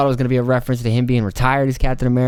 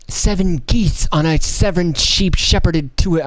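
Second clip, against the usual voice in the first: mock tongue twister; 5 semitones higher, slower than usual. Shown as a demonstration. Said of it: "that's a little tongue twister".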